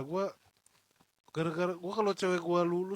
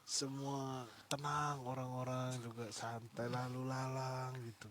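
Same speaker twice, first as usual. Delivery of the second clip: put-on Russian accent; 5 semitones lower, 8 dB quieter than usual. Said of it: "gayanya aja, aksen-aksennya".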